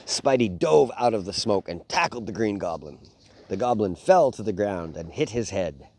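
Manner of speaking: put-on reading a picture book aloud to kids; lively bedtime story read. Dad reading a Spider-Man book to his boys, storytelling voice.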